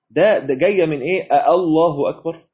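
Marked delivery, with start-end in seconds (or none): 1.3-2.5 rising "آه، الله أكبر" as a question; questioning takbir. Shown as a demonstration. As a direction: turn "آه، الله أكبر" into a query. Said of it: "سؤال".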